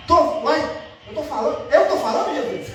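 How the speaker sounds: lightly acted astonishment, half laughing; amazed healed man. Healed man speaks to Jesus, lightly acted amazement. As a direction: play mild disbelief at hearing yourself. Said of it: "Aí imagina ele".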